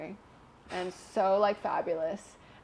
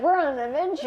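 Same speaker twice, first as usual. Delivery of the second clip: put-on higher, bright sell-it-to-a-kid tone; cheery parent voice; 7 semitones higher, 5 dB louder, faster than usual. To her six-year-old, a higher cheery parent voice. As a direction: make the floor sound like a treat. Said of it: "it's like".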